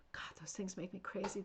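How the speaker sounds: breathless whisper. Real, not acted. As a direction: whisper it in delight. Gushing about cute hamsters.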